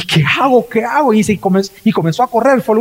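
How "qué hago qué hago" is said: high, frantic repeated question; a retold man in shock, pitched up; panicked cry. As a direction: ask it in rising panic.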